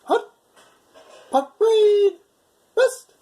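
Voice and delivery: loud drawn out parade command; drill command shout. Shown as a demonstration. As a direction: bark it like a drill instructor.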